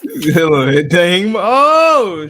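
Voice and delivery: loud laughing shock; laughing exclamation. Real, not acted. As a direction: burst out laughing in disbelief.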